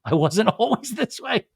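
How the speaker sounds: amused, hammed-up retelling; laughing mockery. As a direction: break into a laugh while imitating. Repeats Kristen's quote, laughing at it.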